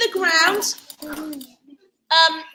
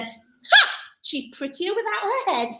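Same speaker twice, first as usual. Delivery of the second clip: smiling ha; 5 semitones higher than usual. Acted. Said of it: "He smiled and said".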